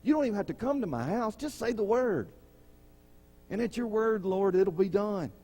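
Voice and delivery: a hint of a humble soldier begging; centurion's humble plea. Centurion asking the Lord to just say the word, lightly voiced.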